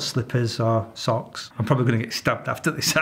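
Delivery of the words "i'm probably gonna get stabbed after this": chuckling through a quick aside; half laughing as he says it. Real, not acted. Man jokes he'll get stabbed, laughing. Joke about getting stabbed.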